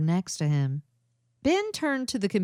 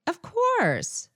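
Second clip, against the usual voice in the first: raised, lighter character voice; light female voice; 12 semitones higher than usual. Acted. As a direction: voice Dee lightly and brightly. Character reply in dialogue.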